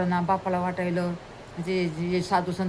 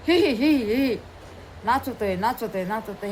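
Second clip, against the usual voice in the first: gleeful giggle. Acted. Boy mocks beaten gardener, dancing.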